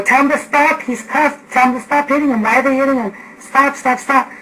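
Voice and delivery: high, loud pleading yell to make them stop; retold yelling. On the phone to nine one one, yelling at them to stop the beating. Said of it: "I'm yelling".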